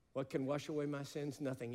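usual speaking voice

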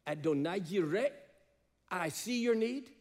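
loud, high proclamation; proclaimed loud. Acted. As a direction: ring it out as God's declaration. God's voice proclaimed in sermon.

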